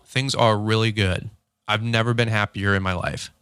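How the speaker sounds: slow, low-energy mock reply; deadpan imitation of a slow talker, pitched a little down; slow talking. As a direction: drag out good news as if there's no excitement in it. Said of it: "If you're talking slow to somebody like me".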